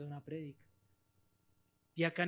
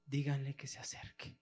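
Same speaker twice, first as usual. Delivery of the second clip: Jesus calls from afar; 3 semitones lower, 4 dB quieter than usual. Acted. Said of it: "escuchó a lo lejos".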